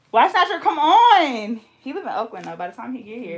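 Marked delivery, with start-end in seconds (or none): 0.1-1.6 loud, slow laughing whine; high laughing plea; laughing protest. Real, not acted. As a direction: laugh it out in disbelief.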